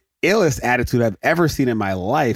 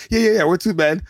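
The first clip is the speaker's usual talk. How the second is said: Uncle Jesse; 7 semitones higher than usual. Retold or imitated. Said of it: "Uncle Jesse's like".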